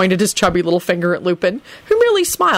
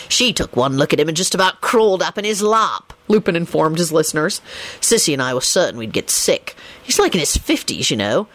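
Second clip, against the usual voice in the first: Lupin recounting gossip; 2 semitones lower than usual. A narrator's reading. Lupin tells his story.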